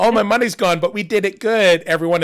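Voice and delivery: hammed-up rallying cry. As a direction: proclaim it like a victory speech.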